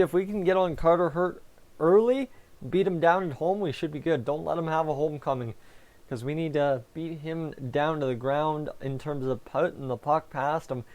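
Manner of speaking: sore tongue, talking carefully; speaking around a bitten tongue. Real, not acted. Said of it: "And I can barely talk tonight".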